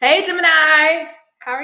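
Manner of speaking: loud, high-pitched hollering. A host greets the Gemini viewers, yelling. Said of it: "I'm like yelling at you guys".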